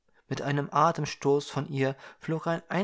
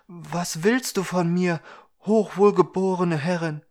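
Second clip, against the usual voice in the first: reverent; 5 semitones higher, 7 dB louder than usual. Acted. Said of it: "sprach ehrfurchtsvoll".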